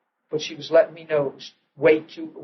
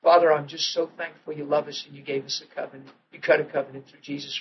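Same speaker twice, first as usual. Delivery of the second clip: simple prayer; 3 semitones lower, 5 dB quieter, faster than usual. Retold or imitated. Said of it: "I said, real simple".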